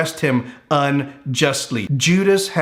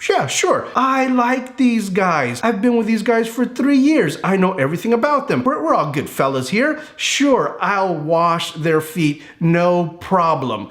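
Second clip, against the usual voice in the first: casual disciple voice; 3 semitones higher than usual. Retold or imitated. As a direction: shrug it off, easygoing. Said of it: "they may have been thinking something like this".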